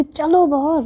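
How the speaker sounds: insistent repeat. Acted. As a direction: repeat it with impatience. Priyasha repeats order.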